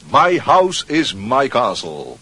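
slow, pompous mock proclamation; mock grand. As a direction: announce it like a lord of the manor. Host mock-grandly welcomes his friend. (plechtig, spottend traag)

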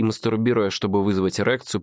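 usual speaking voice

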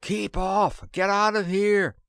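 high, loud shout to keep off; yelled warning. A narrator's reading. Narrator to the landing crew, loud yell. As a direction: bellow across the lawn. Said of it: "I yelled".

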